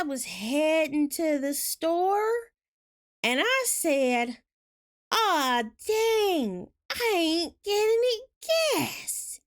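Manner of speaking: slow, high, heavily stressed Southern drawl; imitating Southern cousin. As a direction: draw out each syllable like a slow-talking Southern cousin. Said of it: "Let me imitate my cousin".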